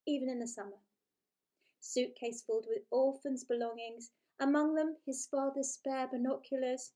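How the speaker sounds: lively, playful storybook reading; story narration. A narrator's reading. Author reading her book to listeners, playful storytelling. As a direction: read it like a bedtime story with relish.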